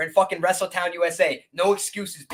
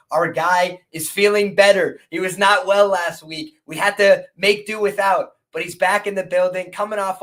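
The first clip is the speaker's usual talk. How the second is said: hype voice; 5 dB louder than usual. Real, not acted. Hyping the returning guest.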